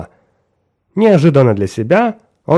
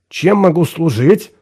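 eager to help; 5 semitones higher than usual. Acted. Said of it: "с готовностью спросил".

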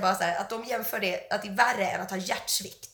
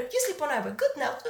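put-on slightly raised Chinese-accented dismissal; Chinese-accented English; 3 semitones higher than usual. Acupuncturist dismissing patient's protest, imitated Chinese accent. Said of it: "kinesisk, eh, brytning".

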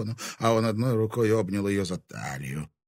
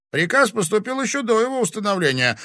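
higher, louder smug answer; grinning; 13 semitones higher, 7 dB louder than usual. A narrator's reading. Sedachev smugly answers the sheriff. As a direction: grin through the words. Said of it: "осклабился Седачёв".

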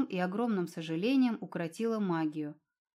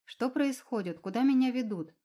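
anxious questions; 4 semitones higher, 4 dB louder than usual. Acted. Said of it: "Девушка с тревогой оглядывалась".

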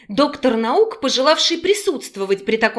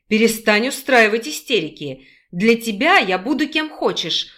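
put-on persuasive young man, lightly lowered; lightly voiced young man. Male character voice.

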